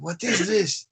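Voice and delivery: high, bad Russian accent; terrible Russian accent. Pyramid builder grabbing the smartphone, bad Russian accent. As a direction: ask it in a clumsy Russian accent. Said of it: "That was a terrible accent there".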